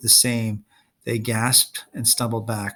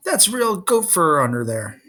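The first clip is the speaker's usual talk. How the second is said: indignant yell, higher and slow; 6 semitones higher than usual. A narrator's reading. Grover protesting as Luke pokes his jeans, indignant yell. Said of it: "Grover yelled".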